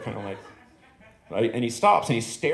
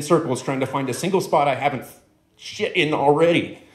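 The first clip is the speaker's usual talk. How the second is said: ranting dog; 3 semitones higher than usual. Acted. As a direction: let the grievance swell line by line. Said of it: "He says".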